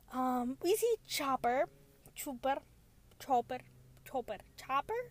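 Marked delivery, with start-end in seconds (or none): 2.1-2.6 Chopper said as "CHOO-per"; playful name variant. Shown as a demonstration. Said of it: "I call him many different". 3.2-4.4 Chopper said as "CHOH-per"; playful name variant. Shown as a demonstration. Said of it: "I call him many different".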